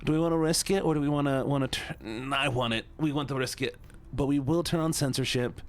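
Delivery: whiny put-on voice, lightly done. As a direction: whine it out like a pouty kid. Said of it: "I'll do the whiny voice for you".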